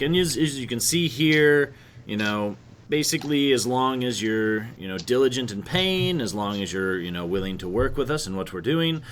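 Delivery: a light hint of an Italian accent; slight Italian accent. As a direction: lawyer with a faint Italian accent. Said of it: "speaking in a slight Italian accent".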